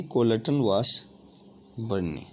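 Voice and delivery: कोलटन वासबर्न ने drawn out very slowly in one phrase; teacher answering her own quiz slowly; slow emphatic answer. Shown as a demonstration. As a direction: stretch every syllable of कोलटन वासबर्न ने so students catch it. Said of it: "ये विधि किसने दी?".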